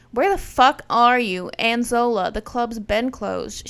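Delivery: a retold angry boyfriend, loud; imitating him going off. Boyfriend on speakerphone demanding where they are, angry shout. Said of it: "he is going off".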